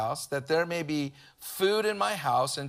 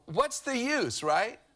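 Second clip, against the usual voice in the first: mock whiny complaint, pitched up; hammed-up grumbling, higher at the start; imitating a complainer; 3 semitones higher than usual. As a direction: whine it like a discouraged believer. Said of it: "you go".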